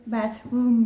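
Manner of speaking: "bathroom" in a thick French accent; English word with French sounds. Real, not acted. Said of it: "magnifique accent anglais comme d'hab".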